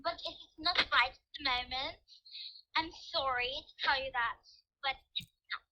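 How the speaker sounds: amateur put-on British accent; bad British accent. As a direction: keep up a clumsy mock-British voice. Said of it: "That was horrible British accent for both of us".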